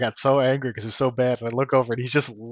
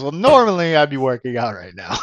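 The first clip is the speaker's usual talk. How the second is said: Chris; 6 dB louder than usual. Retold or imitated. Friend answering what he's doing today, mock voice. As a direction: lightly imitate a friend opening with an excuse. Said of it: "That's what he said to me one time".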